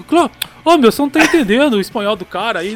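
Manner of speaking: high, loud scolding call; exasperated yell. Retold or imitated. Friend yelling at narrator to understand the driver's Spanish, loud. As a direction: snap at your buddy for not getting it.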